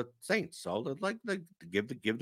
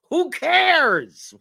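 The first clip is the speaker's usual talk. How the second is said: high, loud dismissive shout; exasperated; 14 semitones higher, 9 dB louder than usual. Real, not acted. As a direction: throw it away in disgust. Dismissive outburst.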